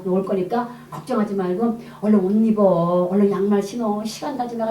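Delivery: retold patient pleading, temper held in; restrained coaxing. Speaker urges reluctant neighbor to dress for dawn service, retold restrained coaxing. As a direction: coax her while swallowing your irritation. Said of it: "내가 내 속을 죽여가면서".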